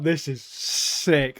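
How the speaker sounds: slow, savoured mock awe; awed. Retelling own reaction to the scene, slow awed delight. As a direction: let each word land, impressed. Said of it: "I was like".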